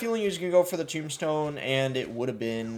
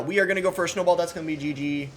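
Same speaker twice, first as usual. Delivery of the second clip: higher excited caster call; frantic mock sports commentary; 5 semitones higher, faster than usual. Real, not acted. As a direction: keep the play-by-play energy. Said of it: "Why do I sound like I'm a sports commentator".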